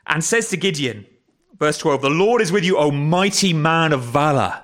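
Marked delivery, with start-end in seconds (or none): 2.0-4.6 lightly voiced heavenly greeting, slowing at the end; a touch of grand herald; angel's proclamation. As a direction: proclaim it, stretching the final words.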